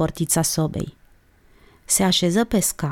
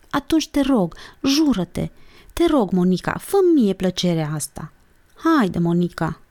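pleading. Acted. Olguța begging Monica to swear, pleading. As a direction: coax a friend into it.

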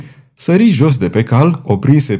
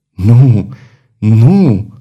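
louder, heavy repeated no; firm refusal; 4 dB louder than usual. A narrator's reading. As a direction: push back with each no. Claude refuses to be father.

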